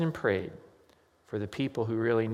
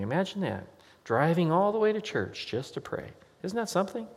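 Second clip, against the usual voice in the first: ironic amazement; 7 semitones higher than usual. Acted. Ironic wonder at praying at church.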